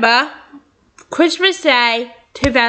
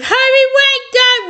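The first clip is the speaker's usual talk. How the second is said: urgent warning; 12 semitones higher than usual. Acted. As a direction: shout it to stop him in time. Character warns Toby, alarm.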